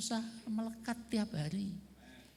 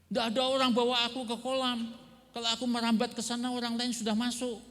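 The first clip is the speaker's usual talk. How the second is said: sick man complaining; 5 semitones higher, 3 dB louder, faster than usual. Retold or imitated. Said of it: "Jadi menceritakan keluhannya".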